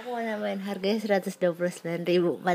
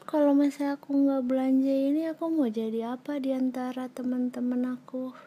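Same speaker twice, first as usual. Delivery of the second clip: a hint of a spoiled wife; whiny wife voice. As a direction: pout like a shopaholic wife. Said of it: "kamu jadi, eh, istri-istri yang gitu".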